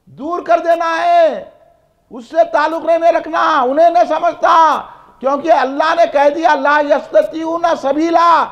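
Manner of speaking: insistent sermon delivery, pitch held up; vehement preaching. Real, not acted. Preacher warning congregation to shun blasphemers, vehement preaching. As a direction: drive each point home to the crowd.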